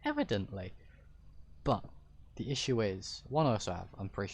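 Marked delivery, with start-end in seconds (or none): 0.0-0.7 high-pitched voice. Shown as a demonstration. Streamer showing their voice can go high, high-pitched. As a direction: pitch jumping up high, then dropping back. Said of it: "I can make it high-pitched".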